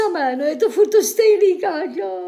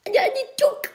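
breathy whisper of mock disbelief; hushed; 10 semitones higher, much faster than usual. Whispering mock shock at the news report. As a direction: whisper it as if scandalised.

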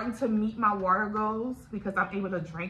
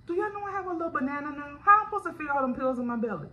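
disbelief; 5 semitones higher, faster than usual. Real, not acted. Marvelling at her small stomach.

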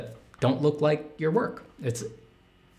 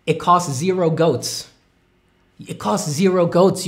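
put-on higher, louder, hammy foreign-accent voice; silly accent voice; 5 semitones higher, 6 dB louder than usual. An accent he can't place, answering the chat. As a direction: ham up a goofy accent.

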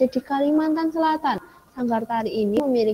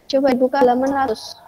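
louder and quicker over a bad line; louder repeat; 2 semitones higher, 6 dB louder, much faster than usual. Real, not acted. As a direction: repeat it louder so students hear. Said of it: "Suaranya putus-putus".

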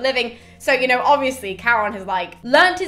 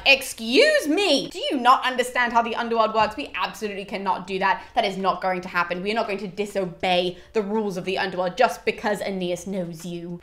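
snapping. Retold or imitated. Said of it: "the Sibyl basically snaps at him".

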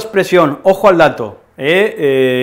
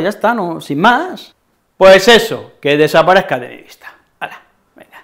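enfado exagerado; 5 semitones higher, 4 dB louder than usual. Acted. Discusión fingida, lo echa.

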